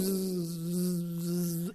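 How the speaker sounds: slow, low buzzing hum; mock wasp buzz; buzzing swarm imitation. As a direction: imitate yellow jackets buzzing. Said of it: "all you hear is".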